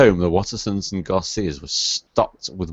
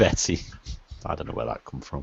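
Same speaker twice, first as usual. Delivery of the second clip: ordinary delivery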